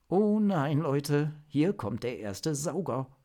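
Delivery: a jolt of alarm calling to the team. Acted. Zock warns teammates the monster drains energy, alarmed call. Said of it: "rief Zock".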